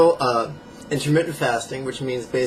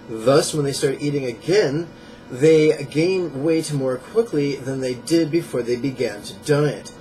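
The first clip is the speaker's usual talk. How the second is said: measured book-passage reading; emphatic nonfiction read-aloud. Acted. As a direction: read it out from the book, a touch more projected.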